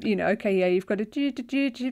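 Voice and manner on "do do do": rhythmic imitated machine beeps; fax machine impression. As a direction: hum it like an old fax machine dialing. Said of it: "That was an excellent impression of a fax machine".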